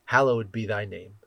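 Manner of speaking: measured, reverent prayer recitation; lightly voiced prayer. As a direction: lead the congregation in prayer. Leads the Lord's Prayer.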